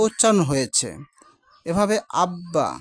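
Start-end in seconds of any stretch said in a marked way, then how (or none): 2.2-2.7 আব্বা said slowly as abba, with a doubled b; slow word demo. Shown as a demonstration. Teacher to students, modelling আব্বা slowly as abba. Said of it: "আব্বা শব্দে এখানে কিন্তু ব ফলা উচ্চারিত হয়েছে".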